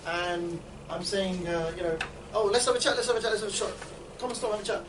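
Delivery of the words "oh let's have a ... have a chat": acted coaxing. Demo of stopping a passer-by.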